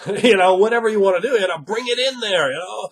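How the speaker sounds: high-pitched put-on character voice; affected character voice. Shown as a demonstration. Game master showing players an affected voice, high-pitched. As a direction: push the pitch right up and stay in character.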